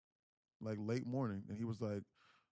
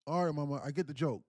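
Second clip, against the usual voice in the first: louder, higher coaxing; retold uneasy coaxing; 5 semitones higher, 7 dB louder than usual. Son to silent mother he thinks is joking, coaxing. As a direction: imitate a son giving in to the joke.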